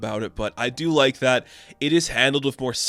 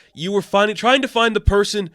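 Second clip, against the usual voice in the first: bitter taunt; 4 semitones higher, 4 dB louder than usual. Retold or imitated. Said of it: "she's like".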